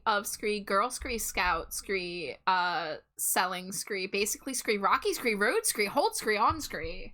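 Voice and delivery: scree talk. Pretend. Scree after every word.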